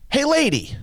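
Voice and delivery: very high parrot call. Acted. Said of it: "Parrot says".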